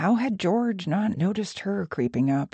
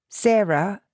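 put-on Australian accent; 3 semitones higher than usual. A narrator's reading. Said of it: "Her accent may be Australian".

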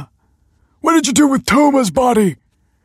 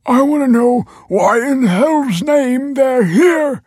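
slow, high, loud shout; furious demand; 9 dB louder, slower than usual. A narrator's reading. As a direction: draw out each word in an outraged yell. Enraged father confronting his family.

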